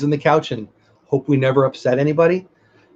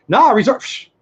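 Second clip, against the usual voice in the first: high excited voice; 7 semitones higher than usual. Real, not acted. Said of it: "my voice gets high".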